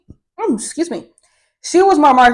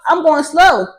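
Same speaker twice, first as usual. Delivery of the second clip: hushed anxious aside, barely voiced; whispered inner thought; 4 semitones higher than usual. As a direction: whisper it like a worried thought to yourself.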